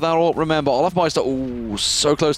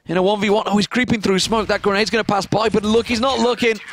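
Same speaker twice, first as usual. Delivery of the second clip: higher, urgent live play-by-play; excited clutch call; 4 semitones higher than usual. Real, not acted. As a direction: lean in, the round hangs on it.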